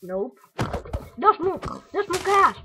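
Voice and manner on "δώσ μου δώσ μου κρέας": loud begging. Acted. Begging the pig for meat.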